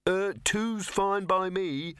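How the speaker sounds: high, slow, uneasy voice; nervous Victor. Acted. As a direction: call out nervously. Victor calling out.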